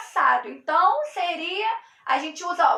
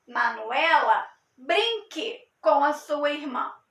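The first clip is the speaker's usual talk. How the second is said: exclamatory command; 2 semitones lower than usual. Shown as a demonstration. Teacher rereading the command with exclamation for students. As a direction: say it as an order with an exclamation mark. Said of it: "exclamação".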